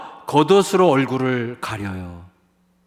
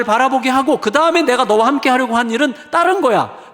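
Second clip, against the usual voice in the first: God's correction building; 4 semitones higher, 4 dB louder than usual. Acted. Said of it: "하나님께서 말씀하시는 거예요".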